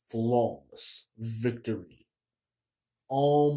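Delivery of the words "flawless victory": announcer voice. Retold or imitated. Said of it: "He says".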